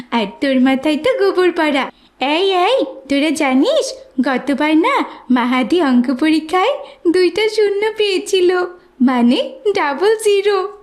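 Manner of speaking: mocking. Classmate mocking Mahadi.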